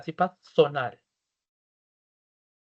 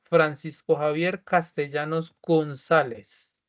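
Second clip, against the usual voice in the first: slow, clear dictation of the full name; slower than usual. Shown as a demonstration. Teacher dictates the name to students, slowly and clearly. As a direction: spell it out slowly for the class to type. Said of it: "van a colocar, por favor".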